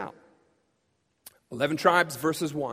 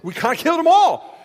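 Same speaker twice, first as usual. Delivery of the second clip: sheepish plea to God; 2 semitones higher, 7 dB louder than usual. Retold or imitated. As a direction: confess a huge blunder half laughing. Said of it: "They're like".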